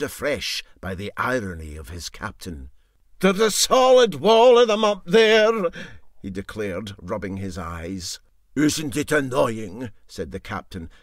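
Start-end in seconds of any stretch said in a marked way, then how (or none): 3.2-5.7 much higher, louder harassed cry; agitated exclaim. Acted. Engineer running back from the midges, harassed cry. 8.6-9.9 fake sympathy. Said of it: "with fallacious sympathy".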